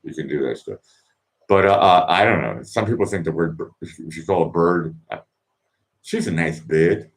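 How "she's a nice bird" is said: a weak go at a British accent; half-hearted British accent; attempted British accent. Shown as a demonstration. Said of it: "I can't do the British accent".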